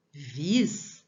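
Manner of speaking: VIS held out on its own; stressed syllable alone. Shown as a demonstration. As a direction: give the answer Vis as one isolated syllable. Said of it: "qual que é a sílaba?".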